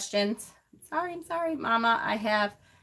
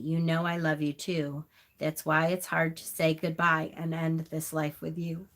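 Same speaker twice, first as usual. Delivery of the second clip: reading a farewell poem, fighting back tears; choked-up memorial poem read aloud; tearful poem reading. Real, not acted. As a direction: read it gently, holding back real tears. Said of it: "I'm just crying 'cause the poem itself".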